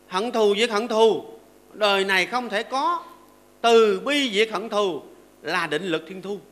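slow, weighty verse reading; recited verse. Acted. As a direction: declaim the verse slowly.

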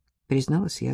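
usual speaking voice

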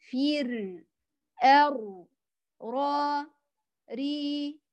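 drilled heavy and light r, one syllable at a time; contrasting r sounds. Shown as a demonstration. Teacher drilling heavy and light r for students. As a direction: show the difference between فر and را and ري. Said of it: "لاحظ الفرق".

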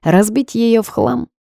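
fierce and drawn out, pitched high; Rita's combative vow, high and slow; militant declaration. A narrator's reading. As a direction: declare it like a battle cry, slowly. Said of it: "воинственно заявила Рита".

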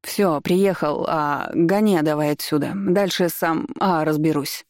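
hoarse bass bark. Acted. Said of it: "рявкнет хриплым басом".

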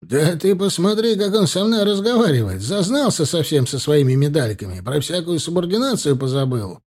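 high, loud outraged complaint; acted outrage, easing slightly at the end; indignant outburst. A narrator's reading. Officer indignant at insolent subordinate.

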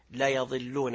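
لا يضلون read as la-yaḍillūn with "ya"; fatha on the ya. Shown as a demonstration. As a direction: put a clear a after the ya in لا يضلون. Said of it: "وقرأت بالفتح".

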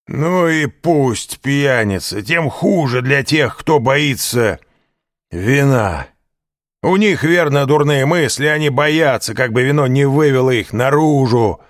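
high, loud, slurring tavern voice; drunken rant. A narrator's reading. Caderousse lectures Danglars and Fernand drunkenly, loud and high. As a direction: preach the virtue of wine like a drunk.

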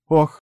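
exhaled "oh". A narrator's reading. Blonde has just dropped her coffee cup, startled sigh. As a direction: let out a sudden "oh". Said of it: "выдохнула она".

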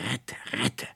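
high, rasping parrot cry going breathless; squawking parrot. A narrator's reading. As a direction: screech it like a frightened parrot. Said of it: "der Papagei schnarrte". (schnarrender Papagei, hoch und kratzig)

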